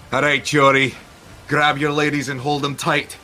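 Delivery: hearty shipboard order; calling to the crew. Acted. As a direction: call out a warning across the gun deck. Calls out to cannon crew.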